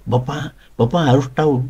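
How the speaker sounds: lightly imitated Acehnese dialect; Acehnese accent. Staff member warning his boss about the man's powers, light Acehnese accent. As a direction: put on a touch of an Acehnese accent. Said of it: "kan pakai dialek Aceh".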